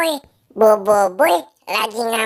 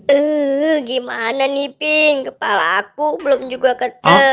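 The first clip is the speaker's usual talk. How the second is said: tearful cartoon whine; mock crying. Boy despairing to Pin over his lost head, tearful. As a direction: whine as if starting to cry. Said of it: "Jangan nangis ya".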